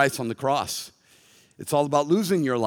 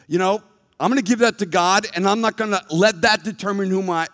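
raised, higher preaching voice; 6 semitones higher, 5 dB louder than usual. Real, not acted. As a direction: declare it firmly to the congregation.

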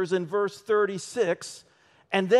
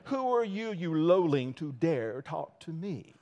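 attempted snooty British aristocrat; haughty, slightly hammy British voice; British accent; 2 semitones lower, 4 dB quieter than usual. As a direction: look down your nose in a put-on British accent. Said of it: "my try at a British accent".

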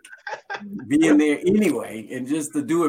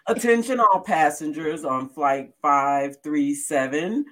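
airport announcement. Acted. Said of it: "we cut to an airline".

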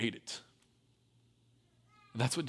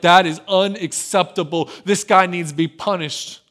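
loud, indignant outburst; livid; 6 dB louder than usual. Retold or imitated. King hears of the rich man's theft, outraged and loud. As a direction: demand punishment, hotly. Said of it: "David gets livid about this".

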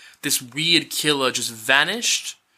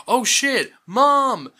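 mock panic; 10 semitones higher, 3 dB louder, much slower than usual. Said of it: "Nancy's like".

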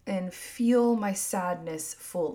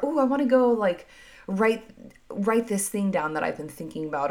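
eager burst of a new idea; inspired after sadness, bursting with a new plan; excited; 4 dB louder than usual. Retold or imitated. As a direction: sound suddenly inspired and keen. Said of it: "get really excited about something and be like".

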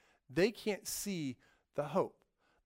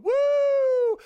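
mock woo; 12 dB louder than usual. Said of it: "holding your ankle going".

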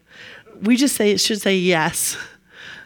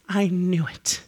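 building frustration; 7 semitones higher, 7 dB louder, much slower than usual. Acted. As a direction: build each repeat into an outburst. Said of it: "And Jonah says".

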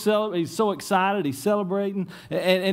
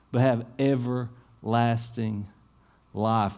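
slowing to a hush at the end; scripture reading. Acted. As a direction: let the verse land slowly. Quotes John 3:16 in sermon.

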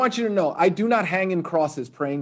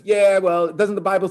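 higher, louder mock hooligan; challenging hooligan; 4 semitones higher, 4 dB louder than usual. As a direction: lightly play a goading hooligan. Hooligans challenge the converted fighter.

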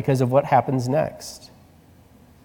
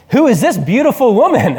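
dazed patient; 9 semitones higher, 5 dB louder than usual. Retold or imitated. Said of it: "he's like".

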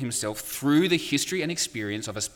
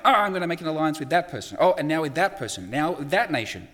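anxious Israel; 5 semitones higher than usual. Retold or imitated. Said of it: "and Israel going".

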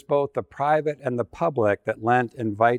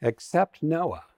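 a hint of petulant fury, pitched up; temper tantrum; 4 semitones higher than usual. God in a temper tantrum planning the flood, petulant. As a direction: huff it out like a sulking child. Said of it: "in a bit of a temper tantrum".

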